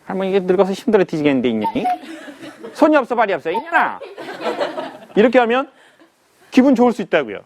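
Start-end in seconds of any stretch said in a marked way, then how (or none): 0.0-4.0 foul mouthed granny. Retold or imitated. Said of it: "욕쟁이 할머니는".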